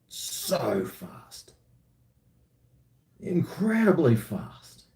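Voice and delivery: dry sarcasm about the slow internet; sarcastic. Real, not acted. Griping to viewers about his slow internet, sarcastic. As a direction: say it deadpan, meaning the opposite.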